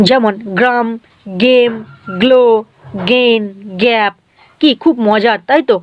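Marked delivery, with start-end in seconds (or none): 0.6-4.1 গ্রাম, গেম, গ্লো, গেইন, গ্যাপ, each opening on a hard g; hard G demonstration. Shown as a demonstration. Teacher giving examples of the rule, গ্রাম, গেম, গ্লো, গেইন, গ্যাপ with hard g openings. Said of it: "গ এর মতো উচ্চারণ হবে".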